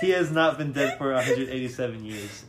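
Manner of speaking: loud, incredulous laughing protest; laughing disbelief. Real, not acted. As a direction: say it loudly through laughter. Laughing at own math error.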